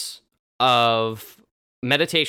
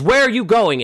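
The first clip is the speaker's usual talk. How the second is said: a loud, high shout at a leaving guest; mock yell; 8 semitones higher, 6 dB louder than usual. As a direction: call out after him, loud. Clifton yells at leaving guest.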